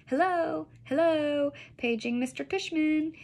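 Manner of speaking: high mock old-lady voice; put-on high old lady; fake old lady voice. A narrator's reading. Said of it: "a fake high old lady voice".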